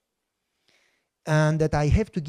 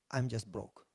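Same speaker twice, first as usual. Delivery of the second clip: despair; 6 semitones lower, 11 dB quieter than usual. Retold or imitated. Despairing prayer to God.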